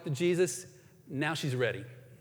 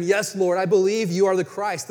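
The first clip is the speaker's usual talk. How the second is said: firm confession; 6 dB louder than usual. Acted. Reads Martha's confession.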